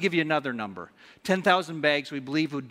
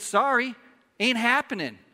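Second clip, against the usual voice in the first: higher, louder mock demand; acted harsh refusal; 8 semitones higher, 5 dB louder than usual. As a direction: play the unforgiving creditor laying down the law. Acting unforgiving servant demanding his money.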